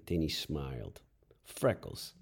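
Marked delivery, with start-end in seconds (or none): 1.4-2.1 whispered realization. Acted. Jeff recalling a detail, hushed whisper. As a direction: breathe it out as it dawns.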